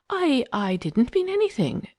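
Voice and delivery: high, faltering denial; stammering. A narrator's reading. Eileen caught out by Phyllis, high nervous stammer. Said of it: "she stammered".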